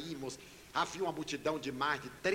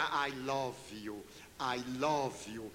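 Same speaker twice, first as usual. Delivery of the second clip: put-on tender child's plea; 5 semitones lower, much slower than usual. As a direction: say it gently, as a lonely child clinging on. Child tenderly repeating to narrator.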